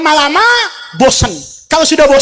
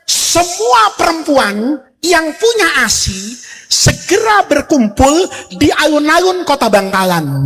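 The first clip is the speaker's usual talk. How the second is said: royal announcement; slower than usual. Acted.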